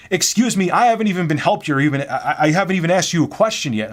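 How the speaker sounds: high, loud mock complaint; indignant customer. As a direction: mimic a fed-up customer demanding service. Retold complaint of impatient customer.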